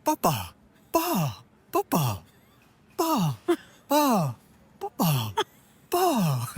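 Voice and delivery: high squeaky papa pa, jumping up on each pa; baby talk to Bowen. Shown as a demonstration. Showing the language he speaks to Bowen, squeaky baby talk. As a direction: coo papa pa at a cat in a baby voice. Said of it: "Should I do it?".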